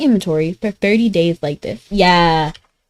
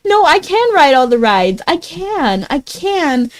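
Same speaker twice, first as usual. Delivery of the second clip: insistent protest; 6 semitones higher, slower than usual. Real, not acted. Protests teasing about height.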